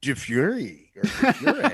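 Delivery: slowly trying out "Di Fiore" between Italian and English; teasing, slowed-down attempts at "Di Fiore"; mixed pronunciation. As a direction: imitate a muddled mix on "Di Fiore". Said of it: "you have a mix of the two".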